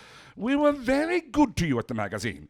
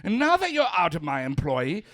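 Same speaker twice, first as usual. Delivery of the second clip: angry; 5 semitones higher, 6 dB louder than usual. Acted. Heated argument, editor lashing out.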